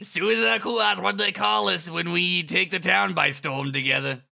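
high, loud, swaggering boast; hammy villain parody. Pretend. Villain pair taking the town together, hammy. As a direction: boast like a cartoon villain duo.

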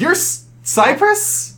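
high, slow, awestruck question; amazed. Acted. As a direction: say the name in wonder. Elf amazed at meeting Cypress.

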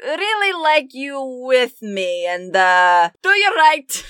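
lightly put-on, hesitant warning voice; Rictavia. Warning party about people in charge, hesitant caution. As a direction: give a halting, tactful warning. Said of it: "Rictavia's voice going".

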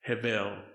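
"Hevel" as HEH-vel, low and soft; Hebrew pronunciation. Shown as a demonstration. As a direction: softly demonstrate the Hebrew word "Hevel". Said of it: "how to pronounce it in Hebrew".

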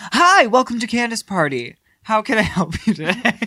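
happy. Shown as a demonstration. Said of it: "this is a happy one".

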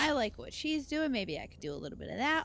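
put-on high, gushing girl voice; admiring teen girl. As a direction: gush like an impressed teen. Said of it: "looking at other people going".

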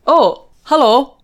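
lightly voiced, drawn-out hello; naked stranger's greeting. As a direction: say it as the guy caught off guard. Voicing the surprised guy on meeting.

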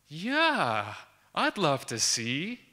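drawn-out imitation of an interested lecturer; slow, lightly acted drawl of interest; lecturer's keen reply. Lecturer answers her student's invitation, mildly hammed-up interest. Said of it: "And she's like".

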